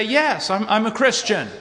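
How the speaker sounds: mildly emphatic quoted avowal; emphatic declaration. Acted. Voicing a professed believer declaring faith, mildly emphatic. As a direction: declare it with a touch of insistence. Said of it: "who would emphatically say".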